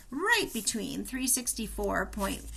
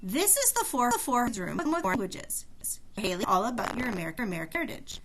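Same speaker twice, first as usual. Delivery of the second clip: talking mannequin voice. Acted. Mannequin speaks to Haley.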